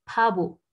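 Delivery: "pabo" with airy p, then plain French b; voiced middle B. Shown as a demonstration. Teacher explaining Korean sound rule, voiced middle B. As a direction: puff on the first syllable of "pabo", none on the b. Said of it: "c'est pas expiré et c'est littéralement un B".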